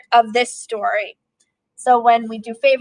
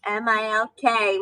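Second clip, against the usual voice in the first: spelling it out; 5 dB quieter than usual. Acted. Spelling out the word slowly.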